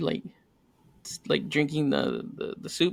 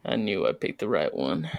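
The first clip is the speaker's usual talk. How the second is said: smug contentment; 7 semitones lower than usual. Retold or imitated. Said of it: "just sitting there just like".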